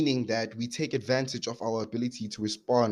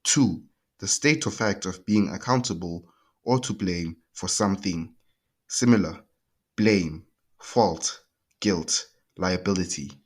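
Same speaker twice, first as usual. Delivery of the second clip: dictionary reading. Shown as a demonstration. Reading a dictionary definition aloud.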